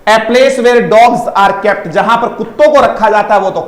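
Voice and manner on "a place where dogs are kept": each word drawn out very slowly; slow definition. Shown as a demonstration. Teacher reading out a definition slowly. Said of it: "kennel".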